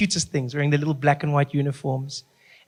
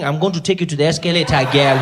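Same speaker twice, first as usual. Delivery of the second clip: smooth pickup line; 3 semitones lower than usual. Retold or imitated. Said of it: "picked up women by saying".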